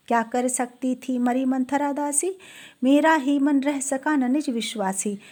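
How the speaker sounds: measured verse reading; poetry recitation. Acted. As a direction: recite the couplet in even metre. Recites verse again before explaining.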